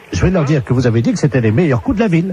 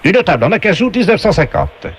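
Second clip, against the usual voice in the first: game show announcer voice; 5 semitones higher than usual. Acted. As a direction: announce each prize like a TV game host. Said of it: "on vous passe tout de suite la voix du jeu".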